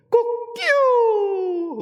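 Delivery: long high crowing cock-a-doodle; rooster crow. Retold or imitated. Preacher imitating the rooster's crow. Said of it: "하고 우는 거예요".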